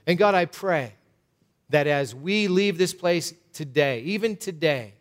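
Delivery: measured, earnest closing prayer, unhurried. Acted. Pastor closing the sermon, praying over the church in a steady earnest prayer.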